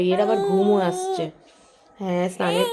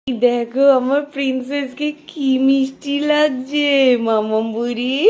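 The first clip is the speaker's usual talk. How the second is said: put-on baby talk. Mother cooing to her baby while dressing her. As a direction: coo playfully at the baby.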